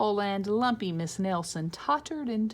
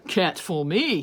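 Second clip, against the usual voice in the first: louder smug principal; 7 dB louder than usual. Acted. Principal pleased with himself, louder. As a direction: gloat like nobody can fool you.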